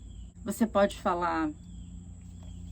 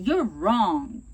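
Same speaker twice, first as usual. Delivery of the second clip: louder, blunt accusation; aggressive; 2 semitones lower, 6 dB louder than usual. Shown as a demonstration. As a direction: snap that they're wrong. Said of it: "Ao invés de falar assim".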